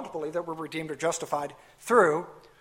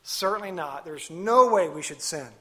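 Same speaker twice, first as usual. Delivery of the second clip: firm CERTAINLY NOT, then a punched NO; "Certainly not" as a firm, categorical denial; emphatic. Retold or imitated. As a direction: drive home "no way" with weight on NO. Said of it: "that's very emphatic".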